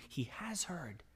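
hushed whisper of reassurance; whispered, awed certainty. Acted. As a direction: let it fall to a whisper. Quiet climax of psalm reading.

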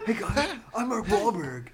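soft celebrity impression; lightly voiced hushed actor; Mark Wahlberg. Co-host copies the host's actor impression, soft mock voice. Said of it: "Why does he whisper?".

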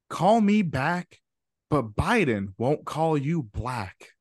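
slow, emphatic storybook read; storyteller reading. Pretend. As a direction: draw it out like a class story. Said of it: "like, you're reading to the class".

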